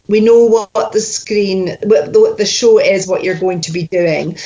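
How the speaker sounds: accidental slip into Scottish; Scottish accent. Real, not acted. Coach describing exercises to the actor, stray Scottish accent. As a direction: slide into a Scottish accent as you explain. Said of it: "I'm doing it again".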